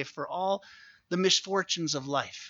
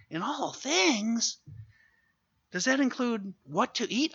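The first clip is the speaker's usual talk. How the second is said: incredulous; 7 semitones higher than usual. Acted. Incredulous question on verse.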